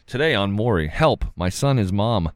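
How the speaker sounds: deep, announcer-style reading. Shown as a demonstration. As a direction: say it like a talk show announcer. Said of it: "let me say it like the announcer would".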